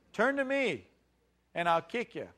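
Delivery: high-pitched mock threat, dropping on the second half. Preacher misquoting God as a bully, mock threatening. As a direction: threaten them as a caricature of a harsh God. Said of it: "No, what does he say?".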